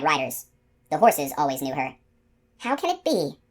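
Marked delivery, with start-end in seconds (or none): 2.6-3.4 wondering. A narrator's reading. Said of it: "she wondered".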